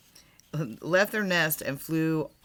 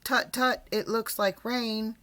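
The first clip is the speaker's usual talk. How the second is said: mock weather worry; 5 semitones higher than usual.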